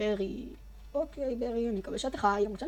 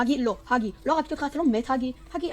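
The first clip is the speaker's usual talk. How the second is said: loud, high panicked cry of a name; panicked shout; 4 semitones higher, 6 dB louder than usual. Real, not acted. Player shouting at a dying game character, panicked. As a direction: yell in alarm at the fallen friend.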